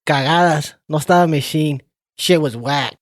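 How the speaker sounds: loud, high-pitched outburst of scorn; emphatic rant. Real, not acted. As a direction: let rip with a loud, exaggerated verdict. Hammed-up rant giving his rating.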